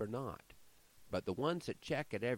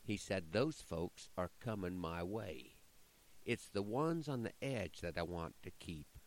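measured, rhythmic poem reading; poem recitation. Acted. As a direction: recite it like a cowboy poet.

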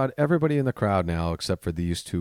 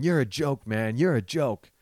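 higher-pitched mock jeer; drunk taunt; 5 semitones higher than usual. Comic replaying the drunk guy's insult, mocking taunt. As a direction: mimic a drunk's repeated needling. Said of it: "argument with a drunk person".

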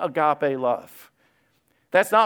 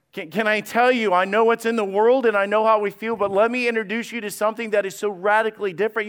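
excited; 4 semitones higher than usual. Retold or imitated. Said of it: "You can hear the excitement in his voice".

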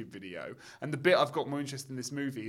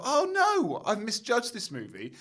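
retold dismay; 8 semitones higher than usual. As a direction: exclaim it as a sudden realisation. Retells momentary realisation while watching.

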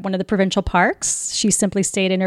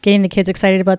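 excited; 10 dB louder than usual. Real, not acted. Excited recruiting announcement.

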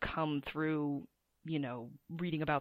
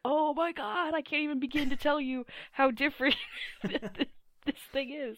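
exasperated; 7 semitones higher than usual. Retold or imitated. Retold exasperated reply.

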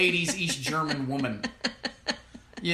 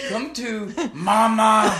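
mock scary mother; 4 semitones higher, 9 dB louder, much slower than usual. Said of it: "It's a scary place".

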